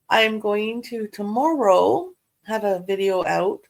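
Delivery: talking through hiccups. Real, not acted. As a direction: hiccup breaking the words. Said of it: "Oh, excuse me, I got the hiccups".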